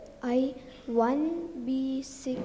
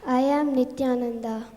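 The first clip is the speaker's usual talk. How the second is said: loud, projected self-introduction, quicker; louder; 7 dB louder, much faster than usual. Real, not acted. Child repeating her name when asked, louder. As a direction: speak up and announce your name clearly. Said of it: "louder, ma?".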